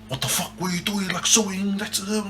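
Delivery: mildly scold, as if quoting big brother; telling off. Retold or imitated. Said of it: "Just telling him off".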